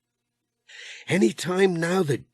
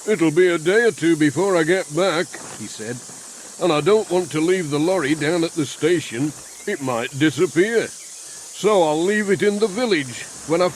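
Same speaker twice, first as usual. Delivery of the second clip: lightly voiced, louder busy man; a hint of a hearty workman; Ted the handyman; 4 dB louder than usual. Ted chatting to Pat while hosing the van, louder.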